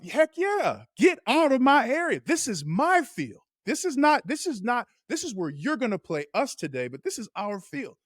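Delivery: high, taunting voice of a team claiming its turf; the Chiefs taunting a visitor, high and cocky; defiant swagger. Retold or imitated. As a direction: gloat like you own the place. Voicing the Chiefs' defiant attitude.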